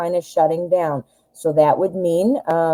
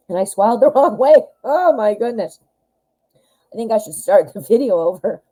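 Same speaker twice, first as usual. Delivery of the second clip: laughing; 4 semitones higher than usual. Real, not acted. Laughing after choking on gum.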